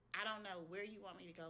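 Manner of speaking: the same plea, dropping back down and tired; weary repeat. Retold or imitated. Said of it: "I was just emotional".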